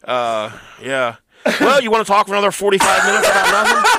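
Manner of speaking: talking into hand phone. Pretend. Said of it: "He's talking it to his hand right now like it's a phone".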